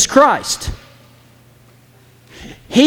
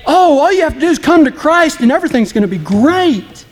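mocking fancy preachers; 5 semitones higher than usual. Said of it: "big fancy preachers say".

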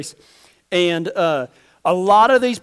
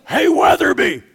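calling out; 5 semitones higher than usual. Retold or imitated. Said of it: "and he goes".

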